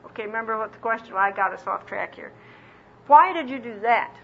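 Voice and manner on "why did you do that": accusing tone. Retold or imitated. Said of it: "in an accusing tone of voice".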